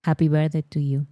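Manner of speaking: quick happy birthday with a thick Spanish accent; Spanish-accented English. Shown as a demonstration. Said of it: "Literally, like, with that accent".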